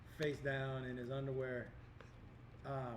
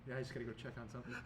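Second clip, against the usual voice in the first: hurried mutter; 3 semitones lower, 6 dB quieter, much faster than usual. Retold or imitated. Retold embarrassed friend's quote.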